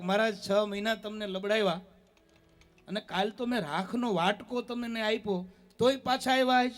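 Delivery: a retold housewife snapping at the monk, mostly understated; annoyed woman scolding. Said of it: "બેન ખીજાતા ખીજાતા બાયણે આવ્યા".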